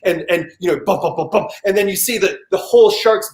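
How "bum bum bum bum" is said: short steady drum thumps; imitated bass drum. Shark documentary soundtrack, imitated drum beat. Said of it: "bass drum beat, just going".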